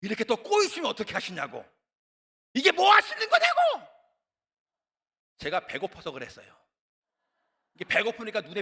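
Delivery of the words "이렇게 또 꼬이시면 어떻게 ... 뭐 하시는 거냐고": building to a furious shout at God; complaining to God. Retold or imitated. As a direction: whine then yell in frustration. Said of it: "하나님 앞에 원망했던 것이 기억나요". (하나님께 원망하며 점점 커지는 고함)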